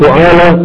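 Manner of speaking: فعالة said fu-'aa-la with the first vowel u; fu'ala with u. Shown as a demonstration. Teacher to students, فعالة said with u on the first letter. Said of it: "الفاء ضمها، قل".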